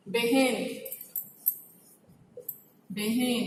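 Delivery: बहन with 'e' vowels, 'beh-en'; wrong pronunciation. Shown as a demonstration. Teacher showing another common mistake, wrong pronunciation. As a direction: turn बहन into 'beh-hen'. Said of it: "गलत है".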